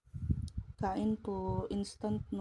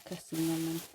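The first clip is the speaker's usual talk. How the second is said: laughing it off, softer and lower; 5 semitones lower, 4 dB quieter than usual. Real, not acted. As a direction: chuckle through the words. Laughs at own mishap. (natatawang pagsabi)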